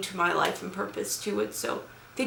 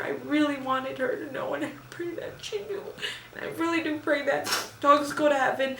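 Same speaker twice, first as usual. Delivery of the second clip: crying; 3 semitones higher than usual. Real, not acted. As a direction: barely hold back the tears. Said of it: "Enough of my crying".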